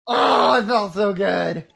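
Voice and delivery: excited. Retold or imitated. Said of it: "I was so excited".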